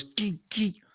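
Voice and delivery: high, quiet squeaky noise; sharp little "geek" squeaks; imitated metal scraping. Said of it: "the noise of those".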